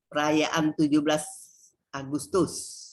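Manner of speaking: "Perayaan tujuh belas Agustus" read as a level label; monotone phrase, dropping at "Agustus"; no intonation. Shown as a demonstration. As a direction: recite it like a title, no sentence tune. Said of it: "tidak ada intonasi".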